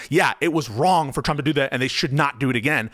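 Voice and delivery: mildly emphatic, stressing "wrong" and "not". Shown as a demonstration. Debater showing his opponent how to admit it, emphatic. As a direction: lean on "wrong" and "not" with firm conviction. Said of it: "with that emphatic voice".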